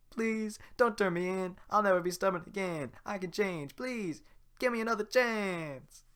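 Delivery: high, loud pleading donkey. Acted. Donkey begs the old woman not to sell him, high and pleading. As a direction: beg for mercy, desperate. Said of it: "That sounds like donkey, right?".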